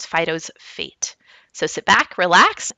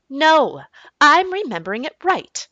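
higher and louder, firm; insistent mom; 9 semitones higher, 5 dB louder than usual. Acted. Mom insists to dad she remembers the name, higher firm voice. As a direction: push back on dad's claim.

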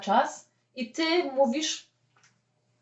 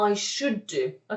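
slow demo; 2 semitones lower, 5 dB quieter, much slower than usual. Shown as a demonstration. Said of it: "I wtedy powiemy".

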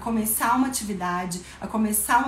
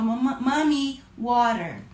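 put-on child's voice; slower than usual. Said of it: "a criança só fala".

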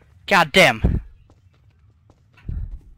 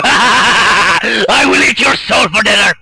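witch voice; 3 semitones higher, 5 dB louder, slower than usual. Acted. Witch voice while playing.

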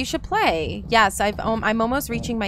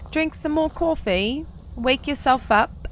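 put-on high, slow British accent; lightly put-on British lilt; 4 semitones higher, slower than usual. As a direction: urge them on in a playful British accent. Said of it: "I do a British accent".

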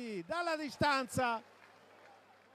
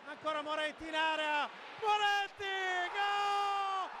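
excited goal call; 3 semitones higher than usual. Real, not acted.

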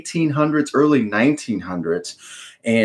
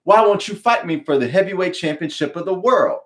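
challenge; 6 semitones higher than usual. Acted. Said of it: "he would stand up and challenge him and say".

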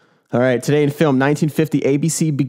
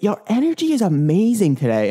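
upbeat compliment; 7 semitones higher than usual. Pretend. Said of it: "be like".

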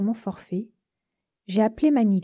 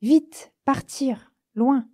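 panicked thoughts; 3 semitones higher, 3 dB louder, much slower than usual. Acted. Girl flees in panic.

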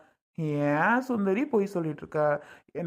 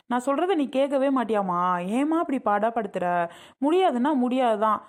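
higher-pitched, fed-up daughter arguing back; acted exasperation, voice raised in pitch; exasperated protest; 4 semitones higher than usual. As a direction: push back at a nagging mother. Daughter refusing mother's marriage plan.

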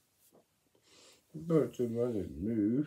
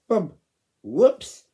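shouted bump and whoops; loud bump; 9 semitones higher, 13 dB louder than usual. Acted. Child reader shouting the crash sound. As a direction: call out the crash.

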